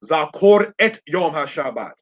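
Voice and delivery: "et" picked out within the Hebrew phrase; stress on ET. Shown as a demonstration. Teacher showing students what is emphasized, stress on "et". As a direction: put the emphasis on "et". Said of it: "what are we emphasizing?".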